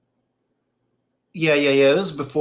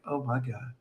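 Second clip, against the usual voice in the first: dismayed mom; 4 semitones lower, 12 dB quieter than usual. Retold or imitated. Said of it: "Mom was like".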